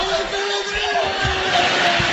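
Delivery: drawn-out joyful cry. Acted. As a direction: stretch the joy out comically. Alegría final alargada. (alegría exagerada y alargada)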